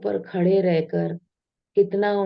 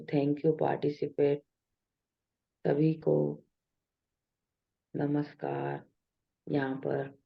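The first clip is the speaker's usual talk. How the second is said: soft, unhurried meditation welcome; guided meditation; 2 semitones lower, 5 dB quieter than usual. Real, not acted. Leader asking participants to close eyes and join breath, softly guiding. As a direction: ease them gently into the practice, with long pauses.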